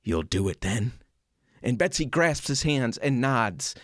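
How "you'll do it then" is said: lower, a touch moved; a hint of welling tears; deeply emotional. George asking Betsy to make the flag, lightly emotional. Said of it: "in a deeply emotional voice".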